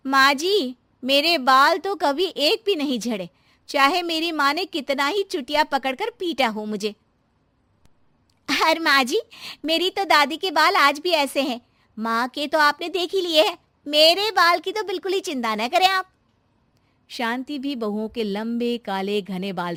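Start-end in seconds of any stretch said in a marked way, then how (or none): 0.1-7.0 put-on higher, louder young bride; second daughter-in-law. Second daughter-in-law boasting to Shanti, higher and eager. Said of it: "दूसरी बोल पड़ी". 8.5-16.1 higher, louder sweet bride; third daughter-in-law. Acted. Third daughter-in-law reassuring Shanti, higher and sweet.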